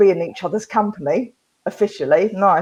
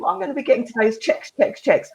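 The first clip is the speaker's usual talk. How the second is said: upbeat demo; 3 semitones higher than usual. Retold or imitated. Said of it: "Try saying".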